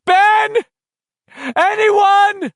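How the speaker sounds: high, loud call. A narrator's reading. Bill calling for friends in the dark, loud shout. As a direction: shout for anyone to answer.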